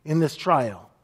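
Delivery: slow, tender reassurance; gentle reassurance. Retold or imitated. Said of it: "he says".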